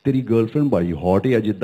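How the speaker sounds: fast, laughing British Punjabi line; UK Punjabi accent. Shown as a demonstration. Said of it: "कुछ एक line ऐसे इसी tone में बोल दो".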